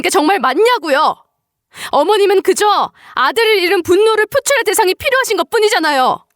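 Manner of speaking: heated, aggrieved self-defence; indignant protest. Acted. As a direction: argue back, pressing every grievance. Daughter-in-law argues back heatedly.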